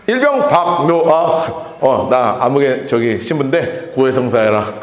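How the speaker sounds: stern priest on phone. Retold or imitated. Priest calls again.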